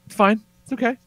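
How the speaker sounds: high, strained reassurance; feigned okay. Retold or imitated. Dad covering shock to his wife, high false calm. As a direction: squeak out that all is well.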